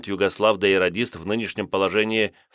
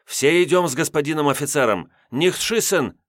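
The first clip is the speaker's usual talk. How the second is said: babbling scared; 7 semitones higher than usual. A narrator's reading. Babbling to German.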